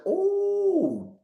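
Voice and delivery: a sharp, very high ooh of sudden recognition; ooh, like it just clicked; surprised ooh. Real, not acted. Host remembering the wild catch, high surprised ooh.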